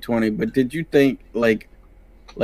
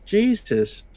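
high mocking taunt; 12 semitones higher than usual. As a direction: tease like a playground bully. Mock-taunting a sad fighter.

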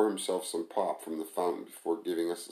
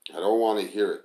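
disgusted; 2 semitones higher, 6 dB louder than usual. Acted. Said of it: "Tamara said in disgust".

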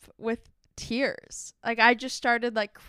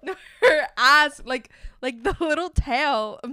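laughing; 4 semitones higher, 8 dB louder than usual. Real, not acted. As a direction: giggle almost to tears. Laughing, nearly crying.

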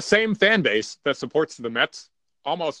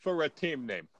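hammed-up New Yorker, pitched higher; mock New York accent; 4 semitones higher than usual. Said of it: "the New York guys screaming".

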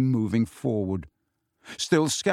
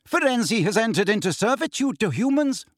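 hard grey centaur; 9 semitones higher than usual. A narrator's reading.

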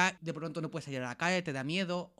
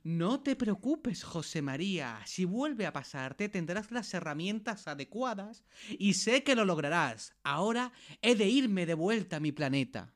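put-on slow, drawn-out Eastern European accent. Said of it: "con acento de Europa del Este".

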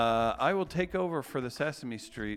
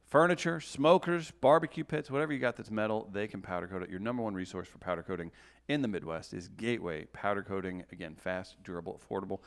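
ad read. Acted. Reads sponsor ad.

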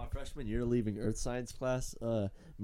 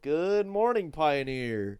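a touch of a cheery morning announcer; imitating announcer; 2 semitones higher, 4 dB louder, much slower than usual. Mimicking the school news teacher, lightly cheery. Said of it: "Mister Mooney over there".

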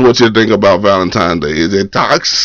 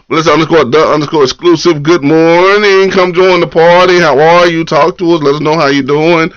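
upbeat host welcome; 5 semitones higher than usual. Real, not acted. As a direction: pull them into the party. Greeting viewer, high energy.

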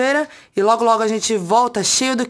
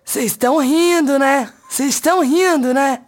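higher, louder, slowly drawn-out impression; Dani Calabresa impression; 5 semitones higher, 3 dB louder, slower than usual. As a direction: mimic a comedian doing a mimic. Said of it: "fez a imitação da Dani Calabresa imitando a Bruna Grifal".

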